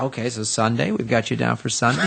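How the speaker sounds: low, unruffled booking voice; obliging assistant. Retold or imitated. Assistant misbooking the caller, low and obliging. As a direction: imitate a polite assistant getting it wrong. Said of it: "secretary assistant".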